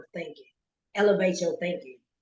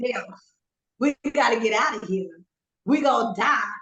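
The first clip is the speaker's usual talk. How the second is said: tamer, slightly raised echo of a panicked plea; quoting back the panic; 3 semitones higher than usual. Retold or imitated. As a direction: parrot a friend's panicked words back to them. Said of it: "Listen to what you just said".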